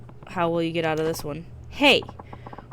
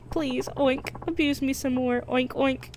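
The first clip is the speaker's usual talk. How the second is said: pleading higher, oinks between words; begging pig; 6 semitones higher than usual. Acted. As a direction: beg like a groveling pig. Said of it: "I don't understand your oinking".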